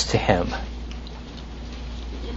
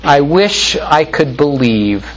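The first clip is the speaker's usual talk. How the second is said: sighing moaner. Retold or imitated. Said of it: "they sigh and they moan more".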